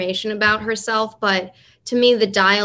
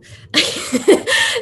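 laugh; 11 semitones higher, 4 dB louder than usual. Real, not acted. Laughs at hardest accent.

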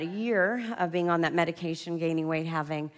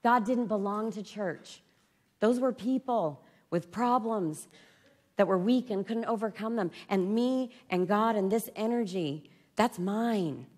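triumphant realization; 4 semitones higher, slower than usual. Retold or imitated. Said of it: "I thought".

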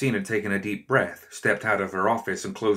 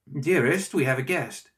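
calling out; 6 semitones higher than usual. A narrator's reading. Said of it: "Orville called out".

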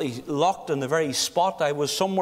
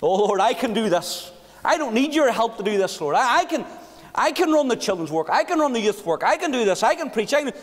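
mock proud boasting, voice raised; boastful self-reliance; 3 semitones higher than usual. Preacher mocks the proud believer, boastful and raised. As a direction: puff up like a man who needs no help. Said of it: "we put an awful lot of dependency upon the flesh".

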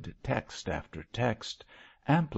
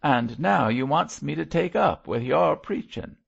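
louder, bitter complaint; resentful growl; 5 semitones higher, 5 dB louder than usual. A narrator's reading. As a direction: throw the blame back at him. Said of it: "he growled".

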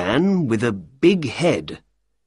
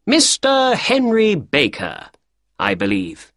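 Holmes voice; 10 semitones higher than usual. Acted. Holmes greets visitor.

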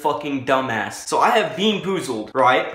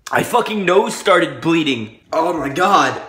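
loud shocked exclamation; loud exclaim; 2 semitones higher, 7 dB louder, slower than usual. Real, not acted. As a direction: blurt it out loud. Reacting loudly to nosebleed.

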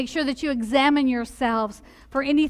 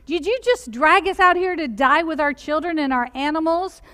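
higher, louder mock whine that slows at the end; whining complaint; 3 semitones higher, 4 dB louder than usual. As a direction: plead like thirsty, grumbling Israelites. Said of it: "complain and whine to Moses and say".

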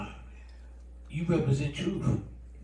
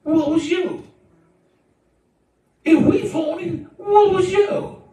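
high, insistent preacher's shout; shouted challenge; 5 dB louder than usual. Acted. Preacher answering those who call the church phony, shouted challenge. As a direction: throw the question back, high and hard.

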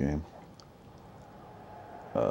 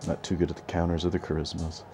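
talking between hiccups; hiccuping; 4 dB quieter than usual. Real, not acted. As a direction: hiccups breaking the words. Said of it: "And I'm hiccuping right now".

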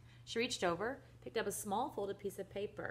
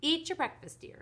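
lightly voiced mother, pitched up; coaxing mother; 11 semitones higher, 6 dB louder than usual. A narrator's reading. Mother to her son at the table, high coaxing. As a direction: lift the opening high, then settle on the endearment.

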